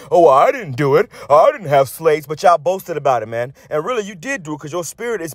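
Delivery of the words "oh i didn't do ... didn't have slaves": mock innocent denial. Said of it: "come up to the camp and say".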